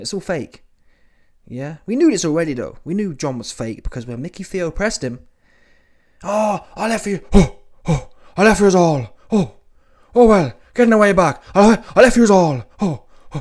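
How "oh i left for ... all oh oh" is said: very loud, high, huffing and puffing rant. Retelling how John Fury reacted when pressed: John Fury voice. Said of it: "I can't do the voice".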